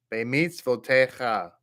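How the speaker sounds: Bemitzvotecha, ending on a breathy cha; careful pronunciation. Shown as a demonstration. Teacher showing students how to pronounce Bemitzvotecha, careful and clear. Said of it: "That's how you pronounce that".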